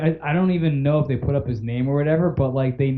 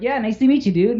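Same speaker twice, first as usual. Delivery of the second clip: much higher bratty cartoon-boy voice; a light Bart impression; Bart Simpson voice; 9 semitones higher, 3 dB louder than usual. The speaker greeting the fan kid as Bart, bratty. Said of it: "pulls the voice on him".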